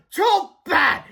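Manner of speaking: high, loud gloating; triumphant principal yell; delighted shout. A narrator's reading. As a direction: shout it with mean glee. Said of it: "Mister Krupp shouted with delight".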